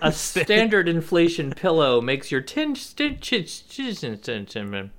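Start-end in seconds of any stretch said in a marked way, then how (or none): 2.8-4.9 mock drowsy mumbling; nodding off mid-word, slurring; sleepy. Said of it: "Oh, he's so sleepy".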